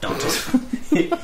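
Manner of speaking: laughing while tickled; being tickled. Real, not acted. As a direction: protest through giggles. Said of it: "Stop it tickling me".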